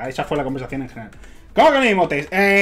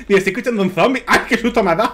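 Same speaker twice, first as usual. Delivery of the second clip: laughing; 5 semitones higher, 4 dB louder, faster than usual. Real, not acted. Laughs at zombie sound.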